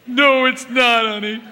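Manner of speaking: high, loud, snide mock reassurance; snide husband faking comfort with a loud high sneer. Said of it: "his tone of voice".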